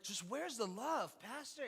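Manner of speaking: lightly voiced church lady, pitch rising on Pastor; a mild imitation of a pleading older lady; a hint of an older church lady asking; imitating Miss K. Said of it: "That was my best Miss K impersonation".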